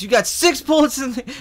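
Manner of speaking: high put-on voice of the guy with the gun. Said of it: "He goes".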